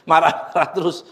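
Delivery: chuckling through the words; laughing. Real, not acted. Preacher joking to listeners about always being angry, laughing.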